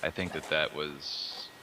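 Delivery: raspy smoker's voice, radio-host style. Real, not acted. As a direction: talk in your everyday smoker's rasp. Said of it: "a radio voice on right now".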